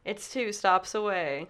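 mock delivery countdown. Voicing man tracking his delivery.

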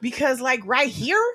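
Bay Area talk, rising at phrase ends; Northern California accent. Shown as a demonstration. Friend asked for Northern California, Bay Area accent. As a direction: lilt upward like a Northern Californian. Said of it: "Northern California".

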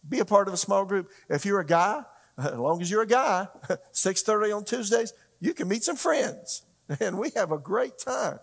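high, loud pitch with chuckles breaking in; chuckling, upbeat plug; amused. Real, not acted. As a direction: laugh through a playful invitation. Joking invitation to men's small group.

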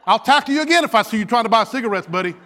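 mild, loud scolding warning; mock threat. Officer warning tackled cigarette buyer, mock threat. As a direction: warn him off with comic toughness.

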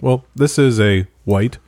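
Michael Scott impression. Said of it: "image of Michael Scott from The Office holding up a glass of wine. He's like".

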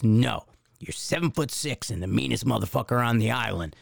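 feed the recruit his line, firmly and evenly; lightly voiced drill instructor. Drill instructor correcting recruit nose to nose, lightly voiced firm order. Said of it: "so this drill instructor".

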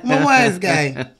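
put-on laughing Italian wise guy accent. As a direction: mobster accent through a laugh. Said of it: "try my best to not do an Italian accent".

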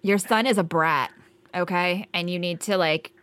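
heated snapping back. Acted. Agent insults caller's son.

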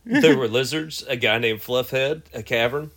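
reading with a cigarette in mouth. Shown as a demonstration. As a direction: talk around a lit cigarette. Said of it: "let me light a cigarette".

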